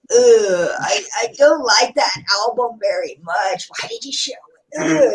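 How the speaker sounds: mock disgusted complaint, lightly put on; Macamea impression. Turning down an album shown on the stream, mock disgust. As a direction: put on a grumbling album hater. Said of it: "that's a, my Macamea impression".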